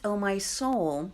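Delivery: casual throwaway "Oh, my soul"; offhand. Shown as a demonstration. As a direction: toss off "Oh, my soul" lightly. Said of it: "it's not just".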